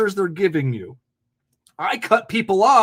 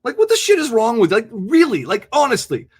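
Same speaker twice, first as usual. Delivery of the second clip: louder, exasperated ranting; fed up with callers, ranting louder; frustrated rant; 3 semitones higher, 6 dB louder than usual. Real, not acted. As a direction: vent at the whole audience.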